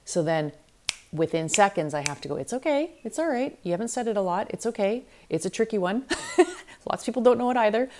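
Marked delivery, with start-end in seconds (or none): 2.4-7.9 self-reassurance. Retold or imitated. Acts out reassuring self-talk.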